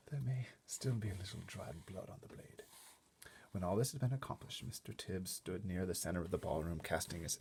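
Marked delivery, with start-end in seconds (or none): 0.1-2.6 whispering. Acted. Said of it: "he whispered".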